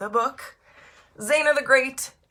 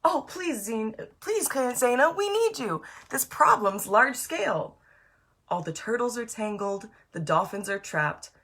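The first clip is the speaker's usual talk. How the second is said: pleading whale; 3 semitones higher than usual. Acted. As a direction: beg Zana for help, voice raised. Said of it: "On the line was her pal, Annalise the blue whale".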